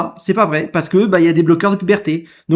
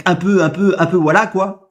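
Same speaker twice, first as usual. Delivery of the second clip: mocking the halting words. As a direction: parrot his unfinished phrase with scorn. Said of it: "Il finit même pas sa phrase". (imitation moqueuse et hésitante)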